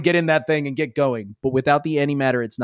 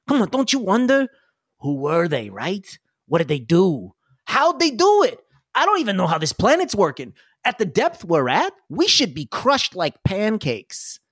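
a lightly pitched-up eager explorer; eager NPC; 3 semitones higher than usual. Acted. NPC urging the crew onward, lightly excited voice. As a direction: coax them with wonder. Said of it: "He's like".

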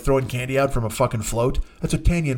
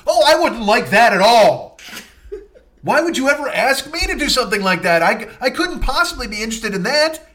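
high, loud mock-wounded sarcasm; bitter comic sarcasm; sarcastic; 7 semitones higher, 4 dB louder than usual.

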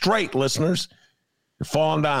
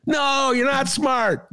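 blunt shout; much slower than usual. Real, not acted. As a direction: drop the act and shout it out. Blunt retort after mock praise.

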